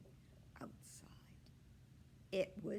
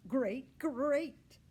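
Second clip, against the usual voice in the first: building excitement; 8 semitones higher, 12 dB louder than usual. A narrator's reading. Read with building emphasis.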